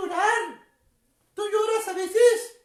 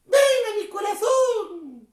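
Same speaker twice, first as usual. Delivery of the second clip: call to repeat; 2 semitones higher, 3 dB louder, much slower than usual. Shown as a demonstration. Clown leads children in a prayer line, slow call-out. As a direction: model it slowly for the children to echo. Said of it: "Díganle conmigo".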